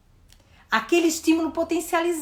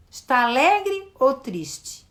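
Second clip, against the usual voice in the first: put-on asking a child; slower than usual. Shown as a demonstration. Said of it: "eu pergunto".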